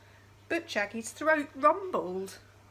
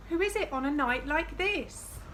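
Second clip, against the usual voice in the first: calling out; 5 semitones higher than usual. Acted. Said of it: "she called".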